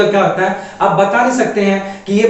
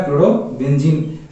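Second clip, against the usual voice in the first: slow repeat; 6 semitones lower, slower than usual. Shown as a demonstration. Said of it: "क्या हो जाएगा?".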